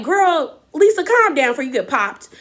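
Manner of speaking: high-pitched exasperated reaction; mock warning. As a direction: warn her off, sassy and high. Imagined warning to quarrelling friend.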